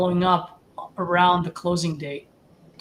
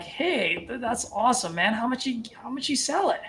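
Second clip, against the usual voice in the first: upbeat, pleased, a little higher; excited; 5 semitones higher than usual. Shown as a demonstration. Coach showing a seller call, sounding happy for them. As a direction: congratulate first, then ask lightly. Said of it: "just be like".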